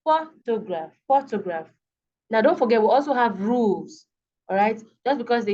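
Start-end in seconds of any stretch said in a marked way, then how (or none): 0.0-1.7 PHOtograph, first syllable stronger than the rest; stress on first syllable. Shown as a demonstration. Teacher showing word stress, first syllable of photograph emphasized. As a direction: lean on the PHO of photograph. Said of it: "emphasized more than the others".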